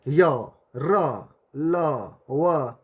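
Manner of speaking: या, रा, ला, वा each said slowly and separately; syllable demo. Shown as a demonstration. Teacher sounding out the letters so students feel the breath. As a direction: sound out या रा ला वा one by one. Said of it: "बोल के देखिए आप".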